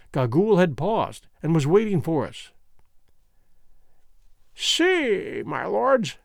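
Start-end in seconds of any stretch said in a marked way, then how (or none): 4.5-6.2 put-on high cracked crone, old and sly; old hag voice, high and thin; old witch voice. A narrator's reading. Gagool the old witch speaks.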